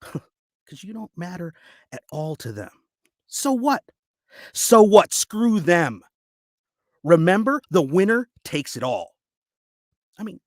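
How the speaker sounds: acted dramatic speech with heavy pauses; audition monologue. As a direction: urge them on bitterly, building in pitch and force.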